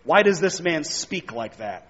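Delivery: normal talking voice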